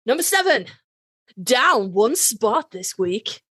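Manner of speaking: slow, drawn-out chart host read; mock countdown announcer. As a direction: spell it out like a radio chart host.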